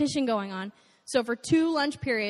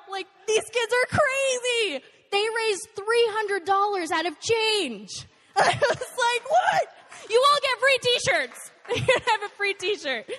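much higher, laughing and amazed; laughing disbelief; 10 semitones higher, slower than usual. Real, not acted. Speaker recalling the kids' fundraising, laughing in disbelief.

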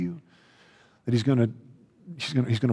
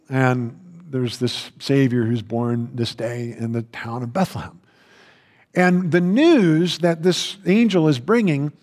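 usual speaking voice

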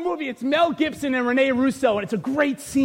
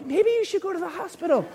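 worried onlookers; 3 semitones higher, 4 dB quieter, faster than usual. Retold or imitated. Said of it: "People are like".

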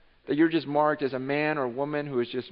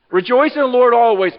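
loud proclaimed verse; 8 semitones higher, 13 dB louder than usual. Shown as a demonstration. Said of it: "I'm gonna say it again".

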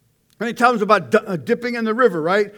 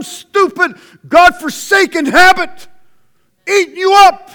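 building preaching; 3 semitones higher, 4 dB louder than usual. Real, not acted.

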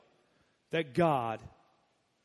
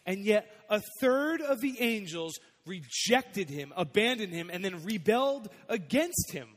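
preaching build; 4 semitones higher, 5 dB louder than usual. Acted. Preacher rising to a peak.

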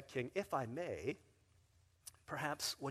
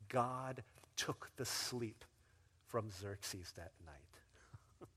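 slow, sinking to a whisper; hushed reveal; 5 semitones lower, 7 dB quieter, much slower than usual. Acted. Preacher quoting the Greek verse, slow hushed whisper. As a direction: let it land in a hush.

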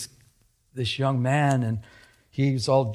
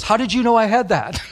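loud, high startled question; imitating shocked disbelief; astonished outburst; 7 semitones higher, 7 dB louder than usual. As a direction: blurt it out as if caught red-handed. Retold thief caught out, astonished.

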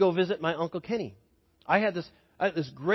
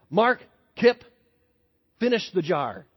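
loud call of names, then a firm order; a hint of a stern father; stern dad; 4 dB louder than usual. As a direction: lay down the punishment. Dad commanding sons.

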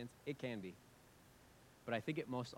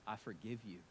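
quiet voice; 4 semitones lower, 6 dB quieter than usual. Retold or imitated. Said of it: "says in the quiet voice".

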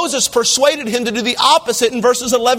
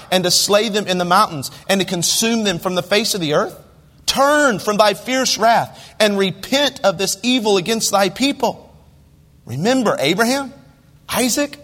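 scripture reading; 2 semitones lower than usual. Acted. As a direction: read the verses like holy writ. Reads scripture aloud in sermon.

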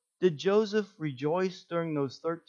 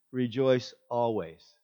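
lower, slow, dry scoff at "Rejoice always"; sarcastic; 3 semitones lower than usual. Pretend. Joseph mocks the advice, slow and sarcastic. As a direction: drag out "Rejoice always" mockingly. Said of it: "I was just imagining".

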